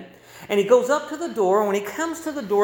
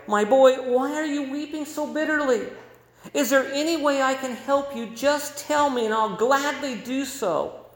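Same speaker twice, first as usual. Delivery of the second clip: put-on gentle, kindly older man, pitched higher; sympathetic tone; 6 semitones higher than usual. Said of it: "And in a very sympathetic tone".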